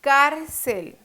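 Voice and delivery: "Cárcel" with weight on "Cár"; showing the stressed syllable. Shown as a demonstration. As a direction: lean hard on "Cár", then let "cel" follow. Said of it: "Cuál es la sílaba tónica". ("Cárcel" con fuerza en "Cár")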